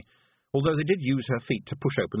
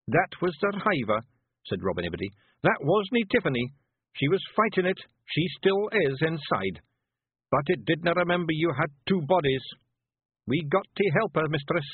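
high, rough little Scottish pictie, gently; a tiny Scots warrior breaking bad news; Feegle voice; 7 semitones higher than usual. Rob explains urgently.

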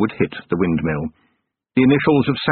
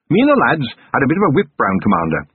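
forced grin; 5 semitones higher, faster than usual. Acted. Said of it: "he said with a forced grin".

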